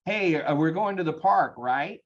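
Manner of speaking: ending right? on a rising question tune; upswing demo. Shown as a demonstration. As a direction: make the statement sound doubtful with a rise on right?. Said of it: "when you have an upswing".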